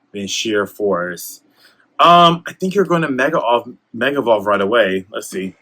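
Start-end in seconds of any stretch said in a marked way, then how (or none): 3.9-5.6 holding back hiccups; talking through hiccups; suppressing hiccups. Real, not acted. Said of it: "Excuse me, hiccups".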